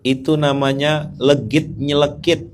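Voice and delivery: normal talking voice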